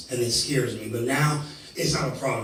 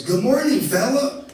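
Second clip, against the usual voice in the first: much higher, louder cheery greeting; squeaky cheery exterminator; 12 semitones higher, 5 dB louder, slower than usual. Retold or imitated. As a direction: chirp it like an eager exterminator. Exterminator voiced, very high.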